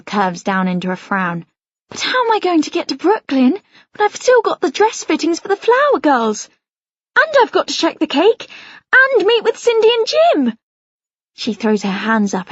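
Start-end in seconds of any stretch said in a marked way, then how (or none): 1.9-10.6 stressed. A narrator's reading. Mum frets about tasks.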